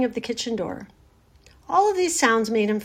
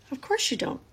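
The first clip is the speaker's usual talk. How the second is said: higher, gentle reassurance; comforting; 5 semitones higher, 4 dB quieter than usual. A narrator's reading. Charlotte reassures Wilbur he won't die, comforting. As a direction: soothe a frightened friend softly. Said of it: "in a comforting voice".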